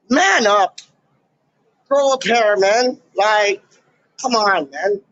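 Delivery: scoffing at people who complain about the vaccine; scornful call. Real, not acted. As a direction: tell them to toughen up with a sneer. Mocking whiners.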